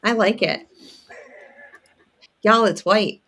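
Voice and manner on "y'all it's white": a light Southern drawl on "y'all"; practised Southern accent. Pretend. Practicing a Southern accent on friends, playful Southern twang. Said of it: "I'm practicing my Southern accent".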